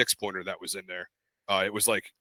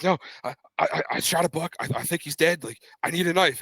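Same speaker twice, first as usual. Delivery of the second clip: high, stammering retold explanation; pitched-up, urgent blurting; flustered excitement; 6 semitones higher than usual. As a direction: stumble over it like an excited kid. Excited boy explains to great-grandfather.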